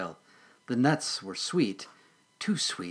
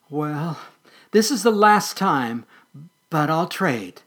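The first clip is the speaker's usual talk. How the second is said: timid squirrel voice; 5 semitones higher, 7 dB louder, slower than usual. Acted. Scared squirrel voice.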